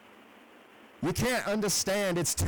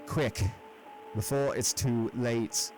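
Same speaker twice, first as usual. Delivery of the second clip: softer, resigned urging from far off; hopeless resignation; 4 semitones higher, 7 dB quieter than usual. A narrator's reading. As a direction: give up but still urge him. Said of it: "acquiring a softer quality, as of hopeless resignation".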